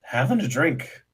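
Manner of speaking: lightly tipsy, swooping pitch; acting drunk. Drinker bantering with the camp guard, acting drunk. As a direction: play a sociable drinker. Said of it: "I've been acting drunk".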